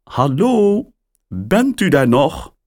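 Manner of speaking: surprised caller on the line; woman's voice. A narrator's reading. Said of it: "vraagt de stem".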